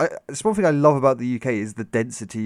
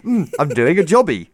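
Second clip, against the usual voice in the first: put-on Scottish accent. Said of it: "Scottish people are renowned for".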